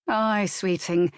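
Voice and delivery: comforting. Acted. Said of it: "comforting her".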